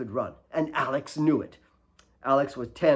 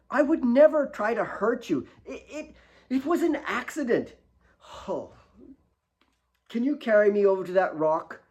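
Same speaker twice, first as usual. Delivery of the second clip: higher, earnest argument; pleading children; 9 semitones higher, 3 dB louder than usual. A narrator's reading. Alex and Kate arguing after the fall, pleading. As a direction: plead and accuse by turns. Apology and demands.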